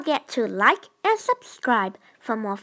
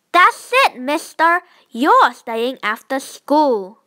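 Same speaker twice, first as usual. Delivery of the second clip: fed-up teacher; 4 dB louder than usual. Acted. Teacher finally loses patience.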